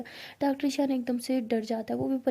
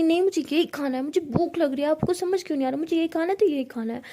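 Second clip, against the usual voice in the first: louder, stubborn demanding whine; childish tantrum; 4 semitones higher, 3 dB louder than usual. Retold or imitated. Sister demanding food from her mother, stubborn tantrum. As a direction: insist like a spoilt child. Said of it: "बच्चों की तरह जिद कर रही होती है".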